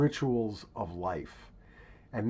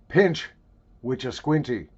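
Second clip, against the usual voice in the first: bad, half-hearted Scottish accent; self-mocking stab at a Scottish accent; attempted Scottish accent. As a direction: try a clumsy Scottish accent on it. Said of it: "try to do a Scottish accent".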